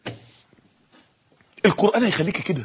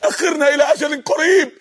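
raised-pitch acted supplication; pleading; 3 semitones higher than usual. Sinners begging God for a delay, pleading. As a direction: beg for one more chance. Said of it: "شايفين الاستغاثة؟".

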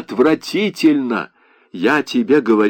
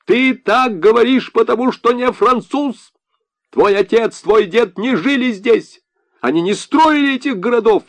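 thin-voiced wail; 8 semitones higher than usual. A narrator's reading. Lansier defends the marshal to Leo, high thin wail. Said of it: "тонким голосом он завопил".

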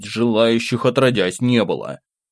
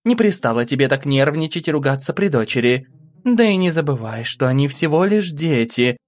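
higher-pitched wife calming her husband; trying to soothe; 4 semitones higher than usual. A narrator's reading. Wife calming Sergei in front of their daughter, soothing reproach. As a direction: gently talk an angry husband down. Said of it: "попыталась успокоить его".

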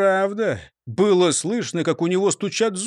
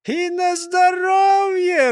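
laughing; 13 semitones higher, 4 dB louder, slower than usual. A narrator's reading. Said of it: "рассмеялся бургомистр".

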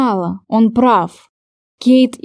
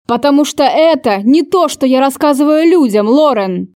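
a mild mock yell, a touch higher; 3 semitones higher than usual. Lover yelling that he never tells anyone about this, mild shout. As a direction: shout it at her but hold back. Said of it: "закричал Кейт".

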